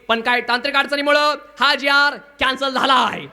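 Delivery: lightly voiced collector's assistant addressing a crowd; announcing official. Collector's assistant to the villagers, lightly imitated official announcement. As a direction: raise the voice a little for a public announcement. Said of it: "कलेक्टरचा PA म्हणला".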